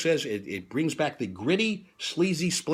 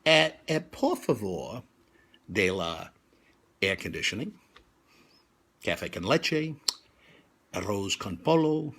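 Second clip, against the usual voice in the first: soft, slow, offhand mock Spanish; mock-casual broken Spanish to the cab driver; nonchalant; 7 semitones lower, 5 dB quieter, slower than usual. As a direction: shrug it out, lower and softer, like it's nothing. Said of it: "I say very nonchalantly".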